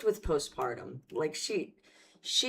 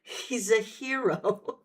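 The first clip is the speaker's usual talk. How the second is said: slow, mock-earnest praise; deadpan sarcastic hero line; 4 semitones higher, slower than usual. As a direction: say it with fake sincerity. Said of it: "Am I doing this right?".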